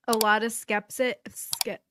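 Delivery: interrupted by a burp; words broken by burps; burping mid-word. Real, not acted. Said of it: "I keep burping".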